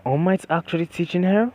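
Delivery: loud, high-pitched amazed outburst; freaking out. A narrator's reading. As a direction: voice a whole class losing it over a celebrity. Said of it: "everyone would be freaking out".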